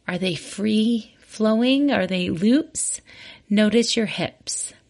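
unhurried meditation guiding with long pauses; guided body scan. Real, not acted. Host leading listeners through a walking body scan, calm guided meditation. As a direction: guide them gently from one body part to the next, leaving room between phrases.

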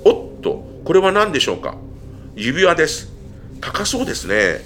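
perky reporter finding something. Acted. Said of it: "マイクを持ったふりをしている一人". (テレビリポーター風の声)

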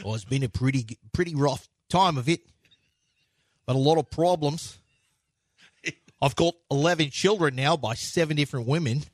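low, halting off-screen star impression; subdued, rambling actor's murmur; Al Pacino. Actor talking off screen about his problems, low subdued impression. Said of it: "Have you ever heard him talk".

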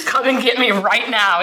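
quoting him through a laugh; amused retelling of his cigarette ultimatum; laughing while quoting. Retold or imitated. Retold boyfriend's outburst, laughing.

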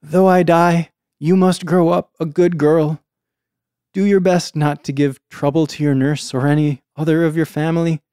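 gentle last words from a deathbed; dying voice. Acted. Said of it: "Oh, yeah, dying voice".

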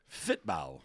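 vague put-on foreign accent on "Football", said as "fitball"; mock foreign accent. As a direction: toss off "Football" in a jokey unplaceable foreign accent. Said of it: "I don't even know what accent that was".

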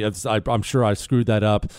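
normal talking voice

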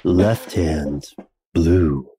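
low, slow seductive radio voice; sultry narrator. Pretend. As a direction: purr it like a late-night DJ. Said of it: "say it in a sexier voice".

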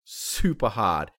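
dramatic action narration; game master's scene setting. Acted. Game master describes the tackle to the players, dramatic narration. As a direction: narrate the attack with punchy emphasis.

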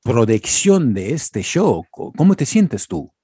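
lightly voiced TV interviewer, upbeat opening; mock reporter. Friend plays reporter interviewing the band, mock host voice. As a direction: play a Mexican TV host asking questions. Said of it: "Imagine we're having an interview".

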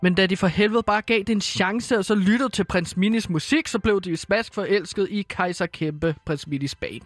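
storytelling voice, reading a Christmas tale. Acted. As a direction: read it like a bedtime story. Host reads Christmas story aloud.

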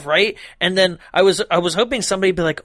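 usual speaking voice

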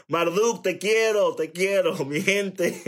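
laughing goodbye to viewers. Real, not acted. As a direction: say it through a chuckle. Laughing at close.

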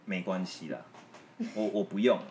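soft mock martyr tone; mock sulky politeness. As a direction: imitate a sulky partner saying it's fine. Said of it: "他就觉得说".

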